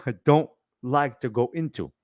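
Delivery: laughing it off. Real, not acted.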